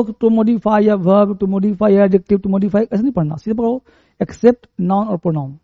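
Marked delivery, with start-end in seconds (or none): 0.0-2.9 slow, drawn-out rote recitation; mock parroting of a grammar rule; rote memorizing. Shown as a demonstration. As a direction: recite it slowly like a learner cramming rules. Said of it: "ऐसे मत पढ़ो".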